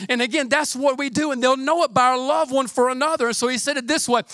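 normal talking voice

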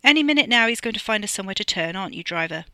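bossy pronouncement with a pointed tag question; loud, assured instruction; commanding. A narrator's reading. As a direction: order it as if merely predicting. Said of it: "It was not a suggestion".

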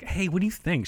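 high, lilting request for an opinion; eager asking. Retold or imitated. Customer shows off a suit to the saleswoman, high eager question.

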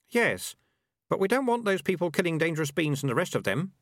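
put-on high kid voice, protesting; worried kid.

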